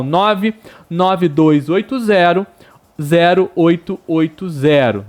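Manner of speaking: each digit spelled out slowly. Shown as a demonstration. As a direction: nove nove dois read digit by digit, slow. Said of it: "Vou repetir". (ditando dígito por dígito, devagar)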